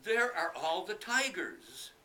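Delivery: high, loud, slow alarm; scared boy. Acted. Boy frightened.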